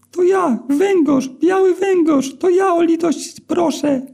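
very high, thin and squeaky, slowed down; squeaky eel begging for mercy. A narrator's reading. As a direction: plead in a tiny squeaky eel voice. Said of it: "piskliwy głosik".

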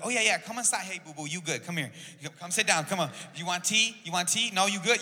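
eager welcome. Retold or imitated. Resident to volunteers at the door, imitated eager welcome. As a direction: imitate a host fussing over a guest.

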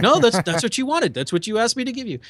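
lightly voiced Shatner, feigning innocence; Shatner impression. Shatner answering the apologising engineer, mock-innocent. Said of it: "It's like".

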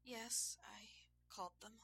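high, breathy whispered admission. A narrator's reading. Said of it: "she whispered after a moment".

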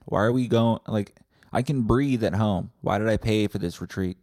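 loud, impatient acted protest; heckling complainer. Retreat customer demands zen from the teacher, loud pestering complaint. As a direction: keep butting in with pushy questions.

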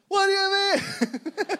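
high, slow, exaggerated Seinfeld whine; cartoonish Seinfeld voice, drawn out; Seinfeld impression. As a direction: ham up a squeaky Jerry Seinfeld. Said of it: "my Seinfeld impression".

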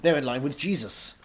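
lightly voiced Welsh thespian holding forth; Anthony Hopkins. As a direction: lecture as a mock-grand Welsh actor.

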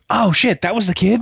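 high, loud surprised squeal of the wife; imitating his wife's high surprised gasp; mock wife surprise. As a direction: play the wife suddenly getting it, voice jumping up. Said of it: "And she goes".

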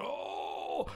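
mock pained groan, low; retold groan. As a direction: groan like a man suddenly taken ill. Retold choking diner starts groaning.

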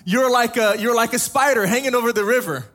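imitating a friend's thick African accent; a light Liberian-style African accent on the one-liner. Pastor quoting his Liberian colleague in a thick African accent. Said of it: "in his really thick, like, African accent".

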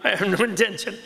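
mock-contrite, half-laughing excuse; sheepish apology. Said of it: "And he said".

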